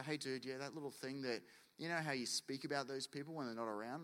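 gentle correction. Acted. God gently correcting a believer.

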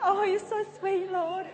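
high, gushing mock-bashful coo; Ross. Ross flattered by God's whisper, high cooing. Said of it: "And Ross goes".

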